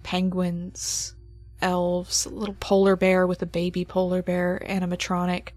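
eerie, measured narration; game master scene setting. Acted. GM describes the animatronics rising.

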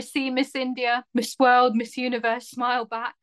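put-on Essex accent monologue read; Essex-accented audition reading. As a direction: deliver it in Essex stylings. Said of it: "read it in the stylings of Essex".

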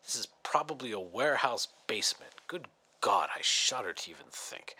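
horrified under-breath whisper. Real, not acted. Host recoiling from the sponsor copy, a horrified whisper. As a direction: breathe it out in disbelief.

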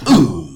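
loud, drawn-out West Coast "Uh". Retold or imitated. Imitating a Bay rapper, heavy loud "Uh". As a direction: hit "Uh" hard and let it slide down. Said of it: "Just like E forty".

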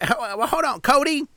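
calling the manager. Retold or imitated. Imitating worker calling manager.

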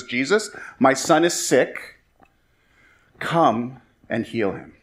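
slow, unapologetic request, pausing before the order; blunt demand. Acted. Official ordering Jesus to heal his son, matter-of-fact and slow. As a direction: state it as an order, with no pleading. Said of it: "without even batting an eye. Not even a please".

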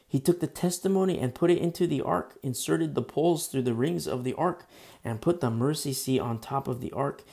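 steady, projected Bible reading; emphatic read-aloud of scripture. Real, not acted. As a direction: read the verse out to the congregation. Reads scripture aloud to congregation.

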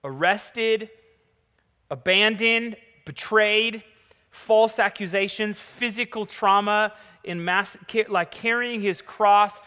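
loud, high, building preacher's cry; rising sermon climax. Acted. Preaching at full force.

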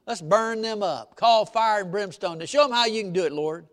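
a touch of a riled-up church member; huffy plea to burn them up; mock outrage, lightly voiced; indignant disciple.

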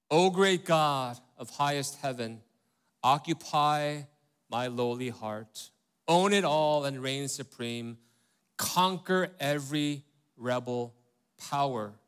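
slow, solemn hymn recitation; hymn reading. Acted. Pastor reads the hymn verse to the congregation, slow and solemn. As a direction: read each line like a prayer. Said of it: "the first verse goes".

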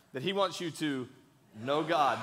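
loud, measured call for all to join; leading group recitation. Shown as a demonstration. Preacher leading the congregation in unison, measured recitation. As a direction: lead the room phrase by phrase. Leads congregation saying it together.

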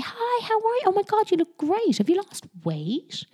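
high-pitched gushy compliments to a friend; gushing greeting. Acted. Greeting a woman not seen in ages, gushing. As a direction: gush over a long-unseen friend in a high voice. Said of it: "You say".

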